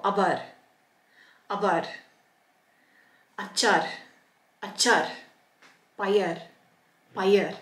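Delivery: "avar, achar, payar" ending on a bare R; each word said apart, final R in "payar" sounded. Shown as a demonstration. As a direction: finish "avar" on the consonant, no vowel after it. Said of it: "comes at the end of a word".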